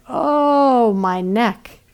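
high wailing "Oh" that falls back; hammed-up lament; mock wailing. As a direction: moan it like a tragic lament. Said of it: "she's wailing".

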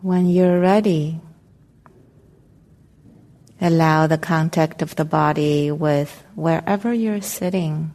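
calm, unhurried meditation guidance with long pauses; guided meditation. Real, not acted. Meditation teacher helping the group settle into their seats, calm guided meditation. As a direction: guide them gently into arriving, leaving space between phrases.

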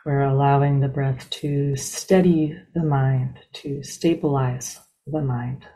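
unhurried, evenly paced meditation guide, long silences between phrases; guided meditation. Real, not acted. Teacher leading a group into breath meditation, calm and spacious. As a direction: ease listeners into stillness, one measured phrase at a time.

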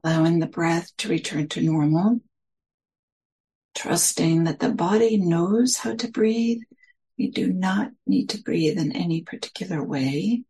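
unhurried meditation guidance with long pauses between phrases; guided meditation. Real, not acted. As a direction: gently guide listeners into settling, phrase by phrase.

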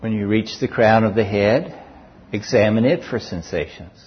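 unhurried guided body-scan voice, long pauses between phrases; guided meditation. Real, not acted. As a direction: guide listeners calmly through each sensation, leaving space after each.

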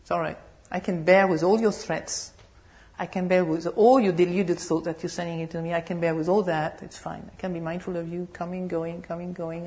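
lightly voiced, steady Buddha; a hint of a serene Buddha; calm Buddha. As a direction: soothe the tempter calmly. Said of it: "So the Buddha says".

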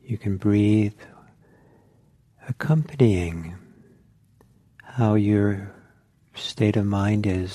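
unhurried meditation guidance with long pauses; guided meditation. Real, not acted. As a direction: guide listeners inward, leaving silence between phrases.

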